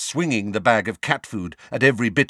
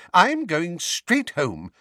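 put-on high, fussy old woman; old lady voice; 9 semitones higher, slower than usual. A narrator's reading. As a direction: play the flustered old neighbour. Mrs Figg voiced.

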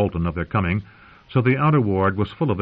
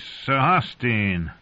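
wry knight; 6 semitones higher, slower than usual. Acted. Jamie voiced mocking the Freys.

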